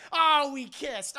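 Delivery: high, loud, drawn-out lament; acted mortified wail. Leia remembering the kiss with Luke, mortified. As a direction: wail it in comic shame.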